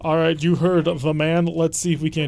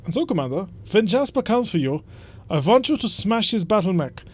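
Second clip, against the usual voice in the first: a hammed-up German accent, stiff and formal; bad German accent. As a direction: read the noble's summons in a bad German accent. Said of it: "just explaining the bad German accent".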